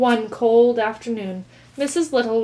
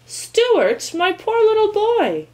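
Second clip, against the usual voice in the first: high, loud anxious mother voice; distressed mother; 12 semitones higher, 6 dB louder, slower than usual. A narrator's reading. Mother finding Stuart frozen, high worried voice. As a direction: fuss over him in alarm.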